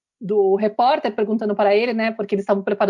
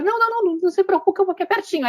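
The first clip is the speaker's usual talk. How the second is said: put-on boy faking it; 9 semitones higher, faster than usual. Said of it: "aí ele finge".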